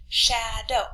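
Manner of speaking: "shadow" counted out as sha, dow; a gap between the two chunks of "shadow"; syllable by syllable. Shown as a demonstration. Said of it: "That's two syllables right there".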